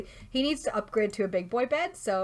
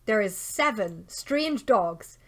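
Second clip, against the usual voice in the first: slow incredulous emphasis; 3 dB louder than usual. Real, not acted. Finished counting stray dogs, indignant announcement.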